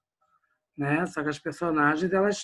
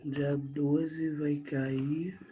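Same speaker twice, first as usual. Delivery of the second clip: slow dictation; 5 dB quieter, much slower than usual. Shown as a demonstration. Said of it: "Obrigado, Breno".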